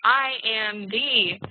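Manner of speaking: slow, measured example reading; slow dictation. Shown as a demonstration. Teacher dictating an example sentence slowly. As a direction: lay each word down slowly. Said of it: "Or you could say".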